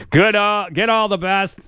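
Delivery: punchy, sing-song sponsor read; radio ad read. Real, not acted. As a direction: sell it like a local radio spot.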